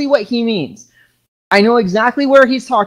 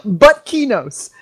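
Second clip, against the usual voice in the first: mock decree, laughing; 5 semitones higher than usual. Shown as a demonstration. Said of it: "correct pronunciation".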